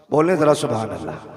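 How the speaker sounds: forceful shouted prompt; loud urging. Real, not acted.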